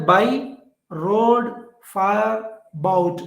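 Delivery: "by", "road", "fire", "bout", each stressed on its own; four separate stresses. Shown as a demonstration. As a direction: beat out "by", "road", "fire", "bout" one by one, with pauses. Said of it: "We have four different stresses".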